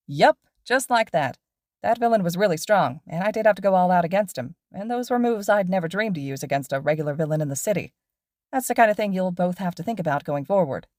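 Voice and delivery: lively pro hero explaining to students; cheerful teacher lecturing his two students on patrol; upbeat hero teacher. Acted. Mike Sensei explaining.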